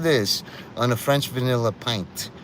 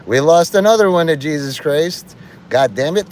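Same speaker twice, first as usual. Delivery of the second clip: mock satanist complaint; 5 semitones higher, 5 dB louder than usual. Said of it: "On the satanic side is like".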